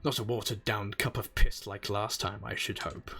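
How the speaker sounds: gruff old sailor brogue, lightly put on; a dock-boss accent, lilting; pirate accent. Old sailor welcoming a newcomer, lightly accented. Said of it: "How terrible is my accent?".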